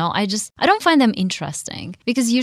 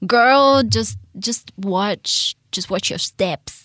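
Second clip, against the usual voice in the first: annoyed guy; slower than usual. Retold or imitated. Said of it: "he would be like".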